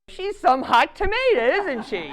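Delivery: loud, high, playing the guy joining in; hearty agreement. Neighbour plays along after reading the card, hearty mock agreement. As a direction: belt it out as the won-over neighbour.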